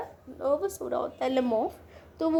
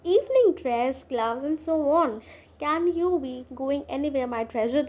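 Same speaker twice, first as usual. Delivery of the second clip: slow, deliberate reading of a play line; unhurried classroom reading of Chekhov; much slower than usual. Acted. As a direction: read each word out slowly for the class. Reads play aloud slowly.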